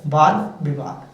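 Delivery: वाद विवाद said slowly, each word separate; slow, careful dictation. Shown as a demonstration. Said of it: "किस तरीके से".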